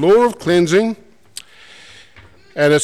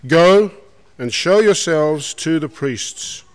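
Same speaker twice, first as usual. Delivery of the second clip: Jesus commanding; slower than usual. Retold or imitated. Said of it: "he said to them".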